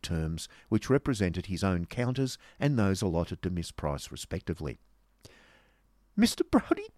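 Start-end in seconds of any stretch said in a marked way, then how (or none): 6.2-6.9 very high, strained hysterical call. Acted. Miss Squeers calls to the Yorkshireman, hysterically. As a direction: call out at the top of the voice's range. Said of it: "said Miss Squeers hysterically".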